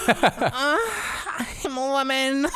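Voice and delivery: high, loud, hammed-up dainty lady; mock prim lady voice. Joking after burp.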